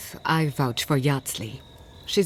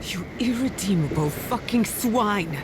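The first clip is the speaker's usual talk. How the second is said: raised, hate-filled curse; furious insult; 5 semitones higher than usual. Acted. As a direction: spit the insult out in rage. Enemy gloats over burned city.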